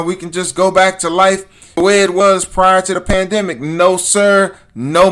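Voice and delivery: riled up. Real, not acted. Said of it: "I'm getting all riled up about this".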